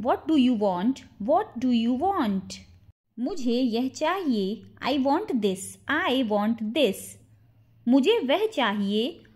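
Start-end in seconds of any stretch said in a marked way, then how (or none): 1.3-2.6 slowed-down question for learners; slow model repeat. Shown as a demonstration. Teacher repeats the question for learners, slowly. 6.0-7.0 drawn-out, slow demonstration; slow model repeat. Shown as a demonstration. Teacher repeats the translation for learners, slowly.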